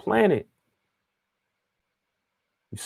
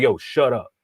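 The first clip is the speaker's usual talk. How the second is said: confrontational shut up. Shown as a demonstration. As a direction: say it like you mean it. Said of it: "it's how you say it".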